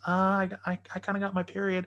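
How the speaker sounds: high, halting mock confession; sheepish woman, imitated. Imitates her awkward confession.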